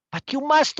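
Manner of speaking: high, urgent plea; insistent. A narrator's reading. Big woman urging Ursula, high and insistent. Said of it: "the big woman said".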